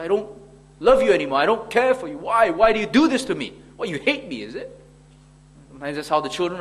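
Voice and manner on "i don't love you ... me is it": put-on louder, whiny, hurt child protest; petulant child. Preacher imitating a sulking punished child, mildly whiny. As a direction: lightly act out a sulking child who was just punished. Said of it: "They say".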